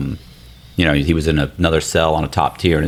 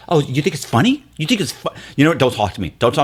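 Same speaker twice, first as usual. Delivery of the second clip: retold indignation, pitched up then dropping; mock irritation; 8 semitones higher, faster than usual. Girlfriend telling off her laughing boyfriend, mock irritated. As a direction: imitate an irritated girlfriend, higher at first. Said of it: "she was so irritated and so upset".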